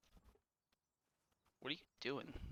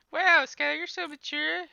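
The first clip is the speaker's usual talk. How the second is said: sarcastic; 14 dB louder, slower than usual. Real, not acted. Mock reaction to fart joke.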